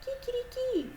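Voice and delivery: imitated Spanish rooster call; playful "kikiriki" rooster sound; Spanish rooster crow. Shown as a demonstration. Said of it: "In Spanish, we say".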